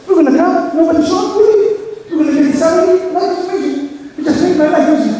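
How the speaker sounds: a hint of a careless rabbi shrugging it off; mocking lazy rabbi. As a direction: play him breezy and self-satisfied.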